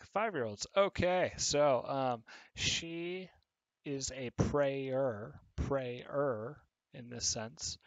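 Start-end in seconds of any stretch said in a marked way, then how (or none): 4.3-6.6 "prayer" said slowly as PRAY-er, two syllables; "prayer" drawn out as PRAY-er, someone who prays; pray-er, a person. Shown as a demonstration. Teacher showing students the person meaning, slow PRAY-er. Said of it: "She likes to pray".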